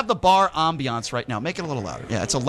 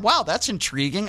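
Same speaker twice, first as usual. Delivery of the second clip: mocking quote; 3 semitones higher, slower than usual. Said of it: "use the term".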